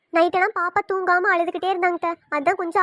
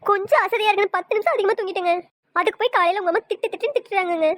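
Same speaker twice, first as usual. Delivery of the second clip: mildly weepy, acted complaint; tearful acting. Wife telling husband his mother scolded her, acted tearful. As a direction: complain with a touch of mock crying. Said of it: "சரி, சரி, அழுகாத விடு".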